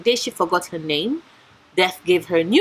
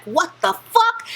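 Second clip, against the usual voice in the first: much higher, slow, stunned disbelief; shocked; 8 semitones higher, slower than usual. Retold or imitated. Heroine starts to burn at a stranger's touch, stunned and high. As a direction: drag it out in horrified disbelief. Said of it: "She's like".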